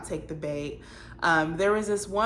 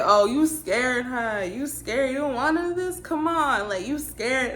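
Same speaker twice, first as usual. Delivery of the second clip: lightly mocked young man's taunt, pitched higher; put-on boy talk; 5 semitones higher than usual. Little boy taunts a nervous woman in the club, mock put-on talk. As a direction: imitate a boy putting on a goading swagger, voice lifted. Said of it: "you do not talk like that".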